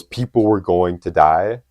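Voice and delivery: slow, emphatic retold outburst; mild mock yell. Fan quoting Superman's outburst in the interview, mild mock yell. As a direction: imitate his outburst at half strength. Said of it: "he just bursts out and yells".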